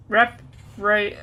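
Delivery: testing rep and re starts; trying the sound. Shown as a demonstration. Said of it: "representation is pronounced re".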